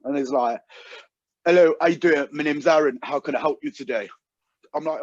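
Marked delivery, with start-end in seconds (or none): 1.4-4.1 lightly imitated phone salesman accent; Aaron's accent. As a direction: put on a salesman's accent, slightly raised at the start. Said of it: "I'm not exaggerating this accent".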